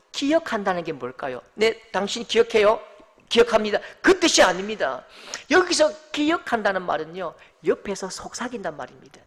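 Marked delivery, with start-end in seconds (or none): none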